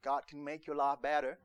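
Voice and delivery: a light mock American accent on God can make your life better; playful hint of an American accent. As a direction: lightly put on American twang for the offer. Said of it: "if you're American".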